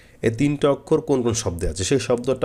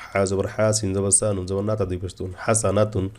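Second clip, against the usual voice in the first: wrong run-on spelling. Shown as a demonstration. Teacher shows how not to spell, letters of হাসানাতুন run together. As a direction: rattle off the letters, join only at হাসানাতুন. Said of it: "এভাবে না".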